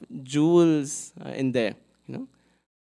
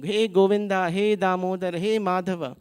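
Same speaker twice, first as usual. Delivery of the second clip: calling out; 4 semitones higher than usual. Retold or imitated. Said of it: "So she kept saying".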